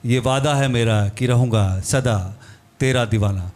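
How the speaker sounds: romantic Hindi verse recited aloud; spoken shayari in measured phrases; shayari recital. Real, not acted. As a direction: recite it as a love poem to his wife. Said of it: "एक शायरी तो मैं करता हूँ".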